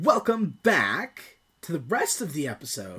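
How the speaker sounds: big swooping show-host welcome; over-enthusiastic. Real, not acted. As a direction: welcome them back with too much pep. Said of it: "You're way too enthusiastic".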